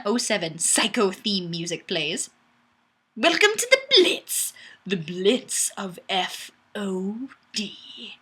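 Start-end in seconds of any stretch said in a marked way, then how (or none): 3.2-8.2 milk it like a movie trailer; dramatic. Acted. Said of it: "it's really dramatic now".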